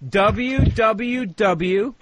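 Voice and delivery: very slow, drawn out letters; slow spelling. Acted. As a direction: spell each W out slowly. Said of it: "you writing this down".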